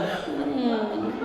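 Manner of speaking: slow, soft sulky whine; whiny girlfriend. Retold or imitated. Girlfriend on the phone sulking at her boyfriend, slow and whiny. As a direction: drag the words out in a pout. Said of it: "Arte mo".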